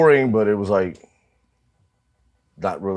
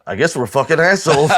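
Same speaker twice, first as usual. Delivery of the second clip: higher, lightly voiced imitation of the band guy; mock sheepish admission; 7 semitones higher, 4 dB louder than usual. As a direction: play the guy admitting it, pitched up. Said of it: "He goes".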